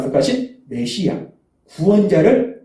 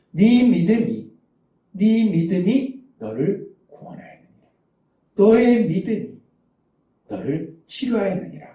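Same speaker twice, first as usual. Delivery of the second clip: gentle pronouncement; 3 dB quieter than usual. Acted. Preacher voices Jesus to the blind man.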